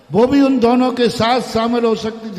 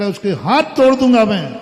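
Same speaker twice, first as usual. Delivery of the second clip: loud, furious threat to break her hands; an enraged son yelling a threat; angry threat; 6 dB louder than usual. Retold or imitated. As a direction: shout it out in a rage.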